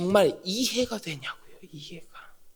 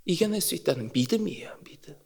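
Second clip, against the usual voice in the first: whisper; 6 semitones lower, 11 dB quieter, faster than usual. Real, not acted. Whispered emphasis.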